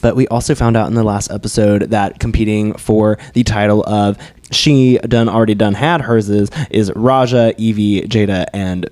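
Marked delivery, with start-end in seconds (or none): 4.5-6.3 put-on country accent. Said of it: "I loved that in your country accent".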